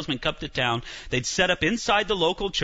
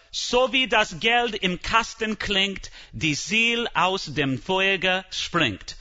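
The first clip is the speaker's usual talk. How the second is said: slow German slogan; 3 semitones higher, slower than usual. Retold or imitated. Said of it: "Tetzel had a slogan".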